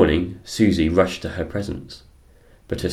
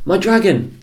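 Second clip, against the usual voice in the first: loud, high excited screech; 13 semitones higher, 6 dB louder than usual. Acted. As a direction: screech with delight. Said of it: "screeched Susie".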